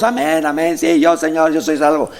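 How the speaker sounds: mock a crowd's ready amens; congregation's eager reply. Preacher mimicking everyone claiming to be saved, eager mock reply.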